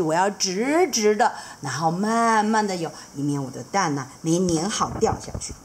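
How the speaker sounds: proud careful father; sea dragon dad. Acted. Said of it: "然后海龙就说".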